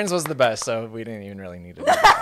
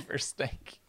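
breathy laughing whisper; 16 dB quieter than usual. Pretend. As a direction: whisper it through a giggle. Whispered echo of joke.

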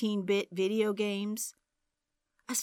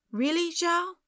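incredulous; 9 semitones higher than usual. A narrator's reading. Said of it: "he said".

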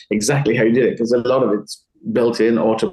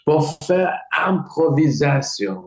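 higher-pitched French stage patter; onstage French patter; 5 semitones higher than usual. Retold or imitated. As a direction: launch into French as if greeting an audience. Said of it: "I would just go".

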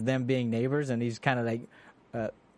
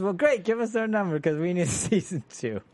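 quoting Adam, laughing; 5 semitones higher than usual. Retold or imitated.

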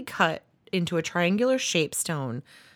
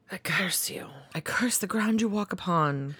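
laying a curse. Acted. Acted curse example, whispered.

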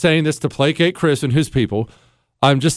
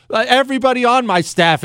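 normal talking voice

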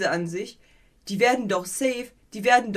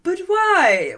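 higher, louder bewildered question; incredulous but why; 9 semitones higher, 6 dB louder than usual. Retold or imitated. Viewer baffled by screaming melons, incredulous. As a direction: ask in disbelief. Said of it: "wär ich so".

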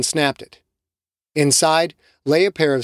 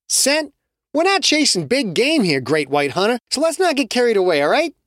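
higher, teasing voice; mocking Che; 9 semitones higher than usual. Che teasing Jake, higher mocking voice. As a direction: rib the hunter.

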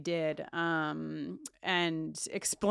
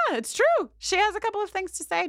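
excited; 11 semitones higher, 4 dB louder than usual. Real, not acted. Hyping up the guest segment.

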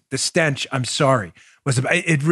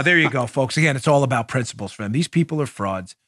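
ordinary delivery

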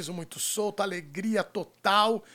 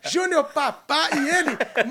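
announcer intro; 6 semitones higher, 9 dB louder than usual. Real, not acted. Host announcing guests loudly.

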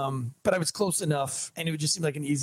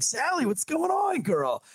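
cool cop; 7 semitones higher than usual. Retold or imitated. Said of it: "I'm trying to be cool cop".

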